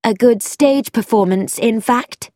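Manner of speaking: icy sarcastic retort; hard voice. Acted. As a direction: throw the words back at him coldly. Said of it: "said Frankie in a hard voice".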